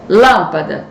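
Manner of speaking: "Lâmpada" com LÂM forte e fechado; sílaba tônica destacada. Shown as a demonstration. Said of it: "qual é a sílaba tônica". ("Lâmpada" com a primeira sílaba tônica marcada)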